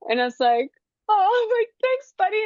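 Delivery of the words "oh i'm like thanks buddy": touched thanks. Retold or imitated. Retold tearful thanks to her son.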